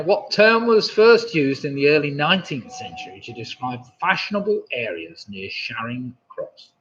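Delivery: posh English quiz host voice. Shown as a demonstration. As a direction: read the question in a posh voice. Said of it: "I lost my posh, posh voice".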